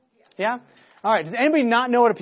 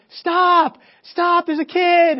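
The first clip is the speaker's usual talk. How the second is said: high, loud shouts of alarm; retold screaming; 9 semitones higher, 9 dB louder, much slower than usual. Family yelling at the blindfolded boy near a toddler, screaming. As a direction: shout an urgent warning, pitched well up. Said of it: "Everybody starts screaming".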